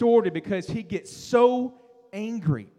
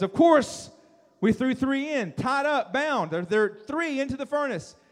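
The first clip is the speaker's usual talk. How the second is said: excited onlookers; 4 semitones higher than usual. Acted. Onlookers answer the startled king.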